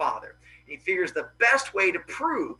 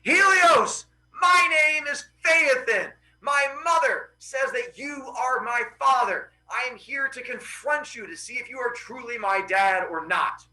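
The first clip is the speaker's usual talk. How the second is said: yelling; 7 semitones higher than usual. Acted. Son confronts Helios in his throne room, yelling. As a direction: call out boldly across a throne room. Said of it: "yells and goes".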